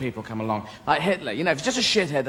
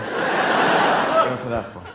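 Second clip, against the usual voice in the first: whispered; 8 semitones lower, 3 dB louder, much slower than usual. Retold or imitated. Officials picking a salute.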